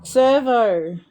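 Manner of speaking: "Servo" said alone, drawn out; demonstrating the word. Shown as a demonstration. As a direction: repeat "Servo" slowly for someone who misheard. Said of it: "The seven eleven?".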